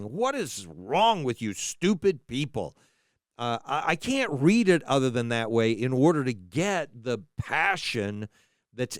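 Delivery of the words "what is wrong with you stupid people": scornful, mocking rebuke of stupid people; sarcastic. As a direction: sneer it like a finger-wagging lawgiver. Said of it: "sarcastically saying".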